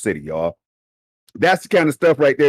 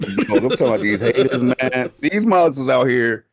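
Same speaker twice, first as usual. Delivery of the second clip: words shaken by laughter; laughing while talking; 4 semitones lower than usual. Real, not acted. Co-host mocking the haters, laughing through it. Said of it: "I'm up here crying".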